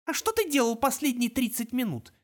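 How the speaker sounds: put-on a clever girl demanding answers; girl's voice. A narrator's reading. Girl snaps a question at her captor. Minerva's voice, narrator reads.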